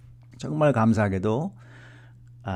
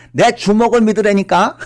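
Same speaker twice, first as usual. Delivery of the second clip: much higher, loud threat; irritated father; 10 semitones higher, 13 dB louder than usual. Retold or imitated. Remembered father insisting on his fist. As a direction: hammer it like an exasperated father. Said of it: "이 주먹이 자꾸 생각이 나서".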